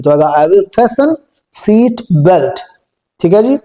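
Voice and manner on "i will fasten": I will fasten, with fasten said as FAH-sen; silent t in fasten. Shown as a demonstration. Teacher drills I will fasten with fasten's t left silent. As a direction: keep the t silent in fasten, said slowly. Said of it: "टी silent है इसमें".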